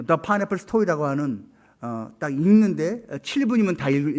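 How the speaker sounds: ordinary talk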